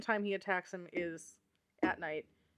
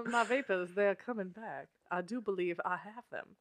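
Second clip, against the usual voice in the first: Southern belle; 4 dB quieter than usual. Pretend.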